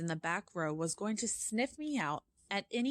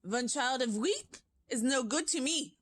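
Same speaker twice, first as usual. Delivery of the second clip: witch crying out; 6 semitones higher than usual. Acted. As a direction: rant with disgust at the children. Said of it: "cried out".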